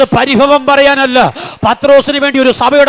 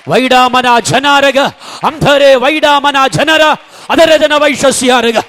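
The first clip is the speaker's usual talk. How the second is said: slow, chanted tongues between sermon lines; praying in tongues; slower than usual. Real, not acted. Preacher leading the church in prayer, slow chanted tongues. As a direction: let the syllables roll out slow and steady.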